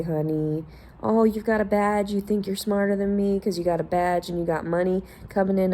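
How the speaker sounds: pat them on the head with every word; condescending mock pity. To people with badges, patronising mock pity. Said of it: "And I'm like".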